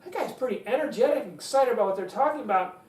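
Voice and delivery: impressed listener voice. Retold or imitated. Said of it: "they start thinking".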